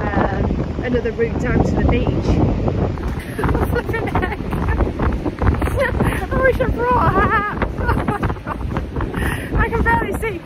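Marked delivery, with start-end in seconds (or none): 2.1-10.4 high, loud breathless laughing; laughing in the wind. Real, not acted. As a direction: laugh while battered by wind. Windblown on beach, laughing.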